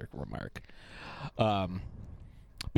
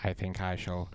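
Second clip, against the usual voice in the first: slow menacing villain; 4 semitones lower, 4 dB quieter, slower than usual. Acted. Confident villain quote.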